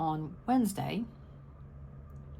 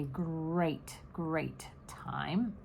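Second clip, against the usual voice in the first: yawning through the words; 5 dB quieter, much slower than usual. Real, not acted. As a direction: say it mid-yawn, breathy. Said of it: "I don't know why I yawn".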